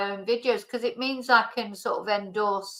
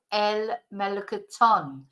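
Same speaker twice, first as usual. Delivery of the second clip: "melocotón" with the beat on TÓN; stress on final syllable. Shown as a demonstration. Teacher showing learners the end accent, stressed TÓN. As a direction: land on the last syllable of "melocotón". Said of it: "we've got the accent on the end".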